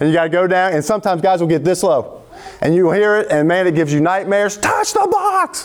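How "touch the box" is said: high, shrill scream. Retelling a drill, the speaker mimics his coach: Coach Neville's high-pitched scream. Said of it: "in his high-pitched voice scream".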